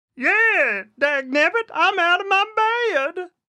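very high, loud, squeaky cartoon character voice. Dared by a friend to do a Scooby-Doo voice, performing Shaggy voice. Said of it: "That's your best shaggy".

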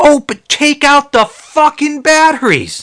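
very high-pitched, fired-up scream. Retelling his reaction while watching a TV show; retelling screaming at the TV. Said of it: "I was screaming at the TV like".

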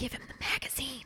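whispered, hushed, breathy undertone. Retelling a scene where a character adds a line in an undertone. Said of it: "adds on an undertone to Arthur".

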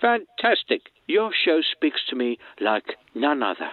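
imitated British film-star voice. A caller greets the hosts of a radio show: spot-on Michael Caine impression. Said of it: "does a fucking spot on fucking Michael Caine".

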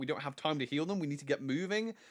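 ordinary delivery

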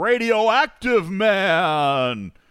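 high sixties superhero announcer voice, "man" stretched out. Reading out a guest's name on stage: old sixties superhero announcer voice. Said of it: "reading it like a superhero, like an old sixties announcer".

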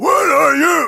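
very high, very loud wild-boar shriek. Showing own version of a metal scream after being asked: scream like a wild boar. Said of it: "it's kind of like a wild boar".

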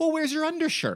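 shrill, very high-pitched scolding tone. Retelling a man scolding someone about their clothes: imitating a scolding. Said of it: "this guy's giving him the riot act".

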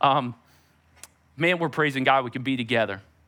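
low voice breaking slightly with feeling. Thanking the audience for their encouragement, voice cracking a little. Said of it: "with my voice cracking a little bit as I say it".

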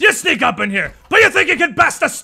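shouting, yelling. Voicing an enemy answering a threat: yelling back. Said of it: "yells back".

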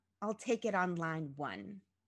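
ordinary talk

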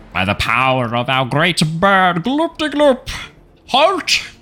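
pitched way up and swooping. Voicing Archpriest Luglug halting a player with a spell: Archpriest Luglug voice. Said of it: "he holds out a hand and goes".

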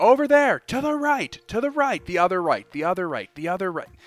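screaming. In a game, a player acts out a character across a field, screaming orders. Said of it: "He's just screaming".

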